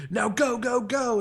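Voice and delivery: high-pitched, hurried urging; mock urgent. Passenger telling the taxi driver to leave, acted urgent. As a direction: push each go out high and urgent. Hurrying cab driver away.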